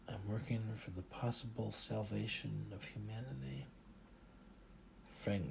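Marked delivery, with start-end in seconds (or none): 0.1-3.7 hushed, much softer secret; whispered. A narrator's reading. Narrator confiding his secret mission to the driver, hushed. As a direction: lean in and murmur it. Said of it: "I looked around and whispered".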